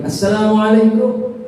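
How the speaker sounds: slow salam, lifted and rising at the end. Acted. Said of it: "Nabi ucapkan salam kedua kali".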